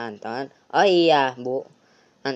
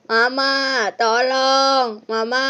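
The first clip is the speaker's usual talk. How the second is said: put-on higher, scared boy crying for mom; calling for help; 9 semitones higher, 3 dB louder, slower than usual. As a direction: yell for mama in panic. (anak ketakutan memanggil mama)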